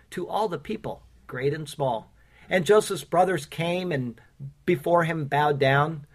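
rhythmic, sing-song reading of a rhyming poem; poem recitation. Acted. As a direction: recite each rhyme to the congregation. Reads his rhyming sermon poem.

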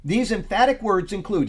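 preacher reading out a study note; emphatic read-aloud. Real, not acted. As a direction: read the commentary out with deliberate emphasis. Reads commentary aloud to group.

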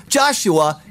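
ordinary delivery

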